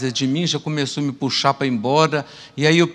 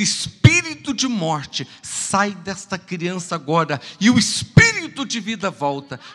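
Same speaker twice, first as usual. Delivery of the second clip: commanding rebuke; 2 semitones higher than usual. Retold or imitated. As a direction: order the spirit out with full authority. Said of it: "e aí eu disse".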